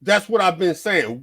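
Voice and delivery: loud, punchy thank you; emphatic agreement. Real, not acted. Host agreeing loudly with co-host, excited. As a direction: slam it home like you've been right all along. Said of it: "I'm getting heated".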